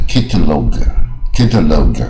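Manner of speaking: "catalog" with "log" said like "loge", no curl; slow mistaken "catalog" with a long O; uncurled-tongue mistake. Shown as a demonstration. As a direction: say "catalog" wrongly, ending in "lohg". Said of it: "如果你那样不卷舌".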